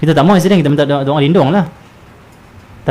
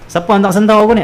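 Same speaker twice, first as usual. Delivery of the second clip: anxious, whiny voice, much higher and louder; fretful complainer; 8 semitones higher, 4 dB louder than usual. Retold or imitated. Preacher mimics a man blaming others for his stomach ache, fretful. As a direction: fuss over who caused the stomach ache. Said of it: "dia cari punca".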